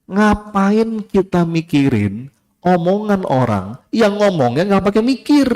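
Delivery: slow, deliberate first take of the line; slow first reading. Shown as a demonstration. Preacher reads the quote slowly to the congregation. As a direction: lay the sentence out slowly. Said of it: "ini bagus kalimat, saya ulang ya".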